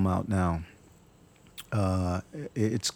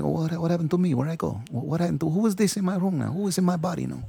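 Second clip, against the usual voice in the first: much higher, panicked questions; startled confusion; 9 semitones higher than usual. Shown as a demonstration. Actor showing the drummer waking up bewildered. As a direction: snap back confused and alarmed. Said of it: "then I say something like".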